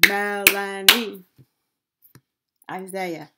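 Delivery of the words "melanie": Melanie in three loud beats, Mel-a-nie; syllable by syllable. Shown as a demonstration. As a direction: punch out each syllable of Melanie. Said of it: "we have three syllable word".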